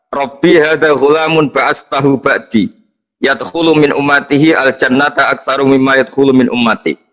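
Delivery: recited Arabic quotation from a book; reading from the text. Real, not acted. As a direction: read out the Arabic scripture verbatim, measured. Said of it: "Terus ini saya baca di".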